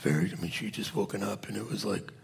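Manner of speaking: low, soft sleepy mumble; groggy just-woken voice. Retold or imitated. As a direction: talk like you just woke up. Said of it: "Angie was kind of talking like this".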